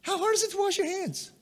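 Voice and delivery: a pastor mocking an absurd excuse, high and exasperated; mock exasperation. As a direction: toss it off as a sneering aside. Mocking exasperated rhetorical question.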